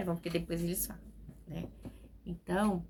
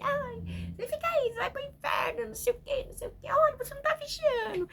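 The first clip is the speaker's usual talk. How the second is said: high, loud mocking nag; shrill-pitched parody of a preachy mother; mock nagging mother; 5 dB louder than usual. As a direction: ham up the nagging mom pushing her kids to church. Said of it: "A gente quer que eles tá na igreja".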